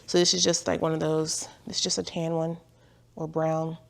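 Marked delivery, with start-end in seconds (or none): 1.7-3.8 soft whispered aside. Real, not acted. Vlogger murmurs while pulling out a shirt. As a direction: whisper it to yourself.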